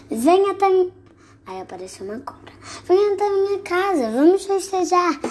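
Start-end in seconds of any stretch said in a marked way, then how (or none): 0.1-0.9 snake voice. Acted. Snake voice, false start. 2.8-5.2 a high, sly snake voice inviting the mouse; the snake coaxing the mouse home, high and sly. Acted.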